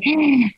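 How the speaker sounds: a quick sharp intake of breath; sharp gasp. Real, not acted. Recalling the cold shower, a sharp gasp. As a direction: gasp as the effort comes back to her. Recalling forcing herself to act.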